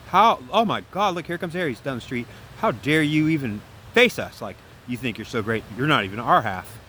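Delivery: put-upon, indignant complaining; poor-me attitude. Acted. Feminine griping as Aries comes down the street, poor-me attitude. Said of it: "that's a personification of my poor me attitude".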